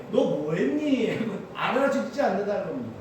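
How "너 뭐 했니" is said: slow, drawn-out question as God; voicing God. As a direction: ask it slowly, like God unimpressed. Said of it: "하나님이". (하나님이 되어 느릿하게 묻듯)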